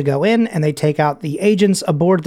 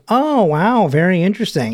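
dismissive interest; 3 semitones higher than usual. Retold or imitated. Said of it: "Phillips gives a little".

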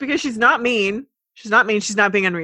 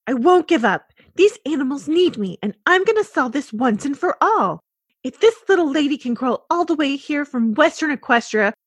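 determined pony voice; 5 semitones higher, 3 dB louder than usual. Acted. Fluttershy determined speech.

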